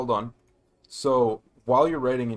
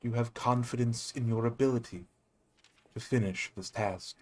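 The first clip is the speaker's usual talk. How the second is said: solemn spirit voice; 6 dB quieter than usual. Acted. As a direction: intone it like an ancient guide. Guide spirit questions Reva.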